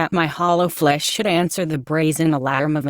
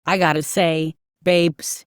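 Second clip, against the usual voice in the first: Essex whine. Acted. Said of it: "he said in a nasal Essex whine".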